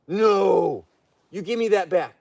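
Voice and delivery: stern demand; firm scolding. Real, not acted. Owner demanding the cushion back from the bear, stern. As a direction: tell her off, firm and unbending. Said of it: "See, talking firm with a bear".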